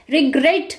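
रिग्रेट with weight on ग्रेट; रिग्रेट, second syllable stressed; stress on last syllable. Shown as a demonstration. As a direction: hit the final ट of रिग्रेट. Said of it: "ट पे stress दिया जा रहा है".

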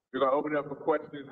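laughs while rushing the line out, fast; a sheepish chuckle at himself; laughing. Real, not acted. Speaker opening the floor to the audience, laughing quickly.

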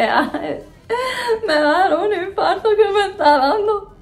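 retold panic. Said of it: "así de".

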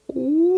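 high ghost howl; ghostly woo. Acted. Barley spooking the crooks from the hayloft, ghostly howl. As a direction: howl it out like a phantom. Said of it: "went Barley from the hayloft".

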